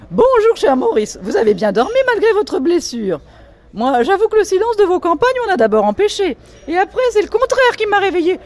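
high, loud affected society lady; high, loud voice of an affected Parisian lady complaining about the noises; Diane's voice. Acted. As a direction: play the shrill grande dame fussing at breakfast. Reading Diane's lines.

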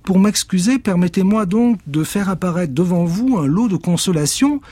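très aigu et fort sur la formule; s'exclame en lançant le sort; sorcière lance le sort. Acted. Witch spell. (la sorcière offre un lot de consolation, aiguë)

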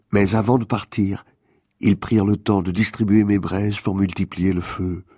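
composed storytelling from the page; poetic narration. Acted. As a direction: recite the tale evenly, letting the pitch settle down at the end. Reads out a quoted poetic passage.

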